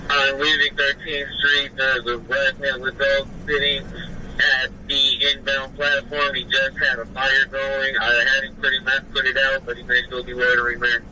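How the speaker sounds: crackly radio transmission; officer calling in over the radio; police radio. Real, not acted. Officer reporting over scanner.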